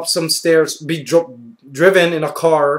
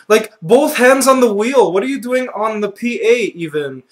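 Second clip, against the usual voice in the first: high, loud, outraged protest; mock-outraged high-pitched tirade, easing slightly; indignant rant; 7 semitones higher, 4 dB louder than usual. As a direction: tell off the pilot in disbelief. Indignant retort to the panicking pilot.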